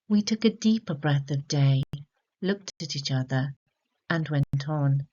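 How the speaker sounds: measured, unhurried poem recital; poem reading. Acted. Teacher reciting the poem to students, in a measured recital voice. Reads poem before analysing it.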